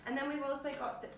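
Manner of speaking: losing her voice, a bit hoarse; worn-out, hoarse throat. Real, not acted. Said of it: "sorry, I'm losing my voice".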